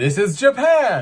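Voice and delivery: high, playful shout. Retelling answering a man who pointed and asked what country, retelling a yell. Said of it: "I yelled back".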